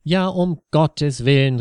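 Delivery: loud startled outcry; alarmed cry. A narrator's reading. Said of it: "rief Ingrid".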